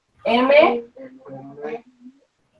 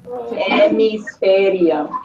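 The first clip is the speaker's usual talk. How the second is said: word drawn out for spelling; slow dictation; much slower than usual. Shown as a demonstration. Teacher dictates a spelling word to the class, slow dictation. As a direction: dictate it very slowly.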